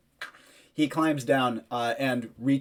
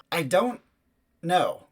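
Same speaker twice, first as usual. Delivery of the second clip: high-voiced boy answering; 5 semitones higher, 3 dB louder, slower than usual. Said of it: "you hear a voice saying".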